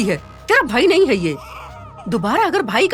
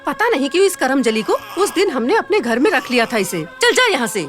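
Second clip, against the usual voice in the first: angry rejection; 2 semitones higher than usual. Acted. Stepmother forbidding the girl to call her mother, harsh angry dismissal. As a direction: throw her out with harsh contempt.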